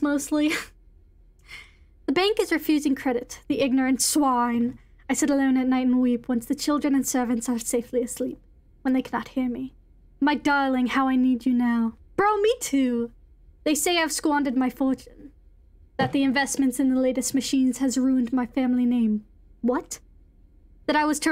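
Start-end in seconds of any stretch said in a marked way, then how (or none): 2.1-11.9 measured, lightly theatrical reading voice; dramatic letter reading. Acted. Reads an in-game letter aloud. 13.6-19.2 measured, lightly theatrical reading voice; dramatic letter reading. Acted. Reads an in-game letter aloud.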